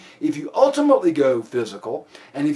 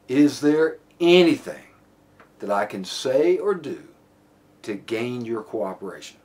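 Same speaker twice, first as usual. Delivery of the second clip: pleading request; 4 semitones lower than usual. Shown as a demonstration. Officer seeking a suspect's cooperation, measured plea. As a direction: ask slowly and politely, settling down at the end. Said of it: "the voice inflection is very, very critical".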